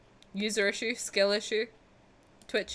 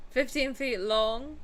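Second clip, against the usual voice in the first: badly faked Scottish accent; 2 semitones higher, slower than usual. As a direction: attempt a Scottish accent and miss. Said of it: "That was a really bad accent".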